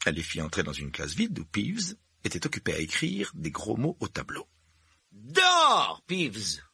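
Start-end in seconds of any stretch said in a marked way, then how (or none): 5.1-6.6 sharp high shout to drive him out; barking order. Acted. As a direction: bark it like a stern teacher. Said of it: "aboya-t-elle".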